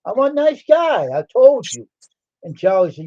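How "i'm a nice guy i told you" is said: high, slow and pleading; mock innocent protest. Pleading he's a nice guy to the principal, high and slow. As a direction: act all innocent, drawing it out. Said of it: "I said".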